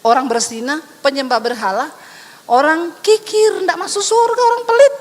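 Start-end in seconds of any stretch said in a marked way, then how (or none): 2.5-4.9 building emphasis. Acted. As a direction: hammer home who misses heaven. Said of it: "preacher builds emphasis". (makin keras sampai puncak)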